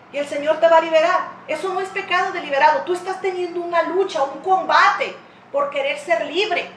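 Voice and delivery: ordinary talk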